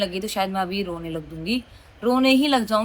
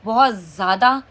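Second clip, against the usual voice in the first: बहुत said louder and pressed; stress on बहुत; 5 dB louder than usual. Real, not acted. To viewers about small things feeling huge, stressing बहुत. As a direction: punch बहुत in बहुत ज़्यादा. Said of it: "बहुत ज़्यादा emotional लड़की हूँ".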